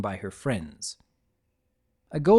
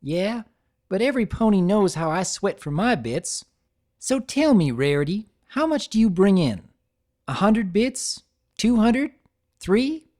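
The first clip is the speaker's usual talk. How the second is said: taunting; 8 semitones higher, 4 dB louder than usual. A narrator's reading. Applejack needling about money.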